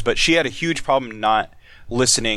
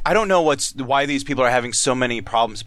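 put-on drunk slurring. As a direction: lean in and slur. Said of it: "slurring her words".

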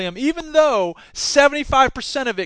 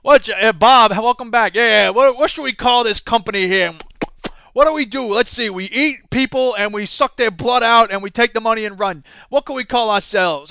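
hammed-up scheming executive, louder; louder smug executive voice; mock villain boardroom; 4 dB louder than usual. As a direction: play a cartoon villain planning. Acted villain board meeting skit.

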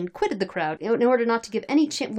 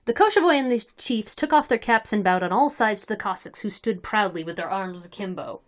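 measured, articulate read-aloud narration; story narration. Acted. Reader telling friends of drunken Cossacks, story narration. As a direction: narrate the tale in a steady reading voice.

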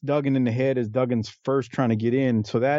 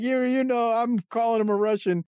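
Bill Watts impression; 8 semitones higher than usual. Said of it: "He's like".

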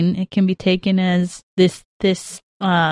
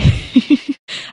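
choked laugh; 6 semitones higher than usual. Real, not acted. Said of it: "I'm trying not to cry right now".

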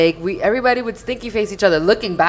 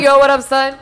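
mock street talk; 7 semitones higher, 6 dB louder than usual. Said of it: "imagine she was like".

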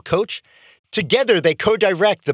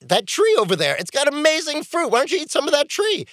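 voicing the snake; 7 semitones higher than usual. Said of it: "and says".

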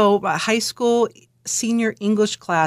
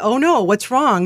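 imitated alarmed concern, louder, swooping pitch; retold concern; 3 semitones higher, 5 dB louder than usual. Doctor asks her crying patient what's wrong, alarmed concern. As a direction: act out a doctor's worried reaction.

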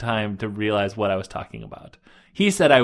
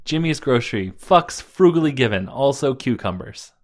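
grocery ad voice; 2 semitones higher than usual. Pretend. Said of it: "sounds like a profane grocery ad".

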